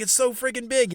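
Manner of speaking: high, loud, excited marvelling; amazed imitation. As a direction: mimic a man awed by his find. Acts out man marvelling at iguana.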